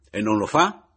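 domanda molto più forte in strada; gridato forte. A narrator's reading. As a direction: urlagli in faccia. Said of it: "gli gridai forte". (grido in mezzo alla strada)

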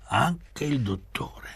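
slow, high-pitched echo, falling at the end; drawn-out echo. A narrator's reading. Echoed answer in read dialogue.

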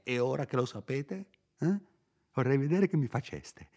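sarcasmo che monta con sfogo; rimprovero ironico. Acted. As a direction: rinfaccia con ironia amara. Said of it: "continuò allegramente". (il curato che sfoga la collera contro Renzo, ironico)

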